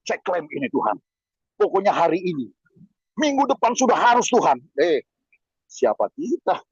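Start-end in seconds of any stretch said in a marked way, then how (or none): 0.0-4.6 mock demanding prayer. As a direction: imitate a pushy believer bossing God, rising at the end. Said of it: "Jangan marah-marah". (meniru doa menuntut dan memaksa)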